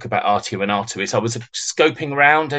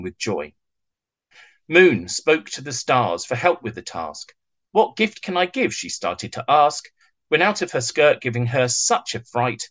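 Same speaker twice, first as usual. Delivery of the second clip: gentle rhyming poem read to kittens; bedtime story reading. Acted. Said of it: "Would you share a rendition of it with us".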